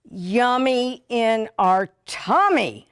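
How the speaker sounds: loud, slow sing-song yummy; playful delight. Real, not acted. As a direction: relish it like a treat. Tasting food playfully.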